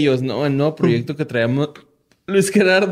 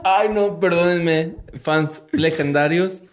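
apologising through hiccups; slower than usual. Real, not acted. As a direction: hiccups breaking the words. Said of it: "con este hipo tremendo que me dio".

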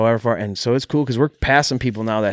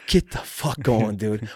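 mocking taunt; slower than usual. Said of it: "I'm like".

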